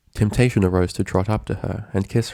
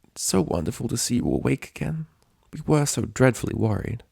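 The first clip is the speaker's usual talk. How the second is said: refined Rarity; 4 semitones higher than usual. A narrator's reading. Rarity greeting Dash.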